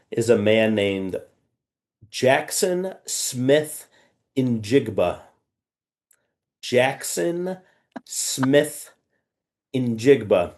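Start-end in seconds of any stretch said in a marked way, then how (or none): 2.1-10.5 "Jackson Smith Njigba" spaced out, each name on its own; over enunciating. Shown as a demonstration. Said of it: "That is his name".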